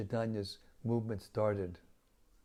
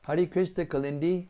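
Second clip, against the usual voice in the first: loud greeting; 7 semitones higher, 9 dB louder than usual. Real, not acted. Warm greeting over Zoom.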